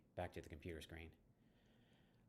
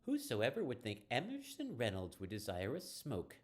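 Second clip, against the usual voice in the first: goofy drawl; 4 semitones higher, 3 dB louder than usual. Acted. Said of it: "She smiles and then returns to herself".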